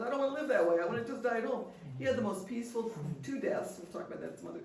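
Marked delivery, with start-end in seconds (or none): 0.0-1.7 firm refusal. Retold or imitated. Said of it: "And he goes".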